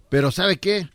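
cholo. Acted. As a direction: pipe up to the officer as a cholo. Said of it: "Y el cholo dijo". (cholo confesándose con voz aguda)

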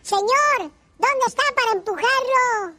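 high mock shout into the rain. Father yelling to find the man in the storm. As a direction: call out looking for the stranded man. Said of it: "que le grita a mi papá".

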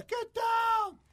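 loud, high cop yell; mock cop shout. Cop ordering him to the ground, mock shout. Retold police command.

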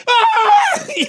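scream as demo. Shown as a demonstration. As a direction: shriek it as you let go. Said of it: "Así grité".

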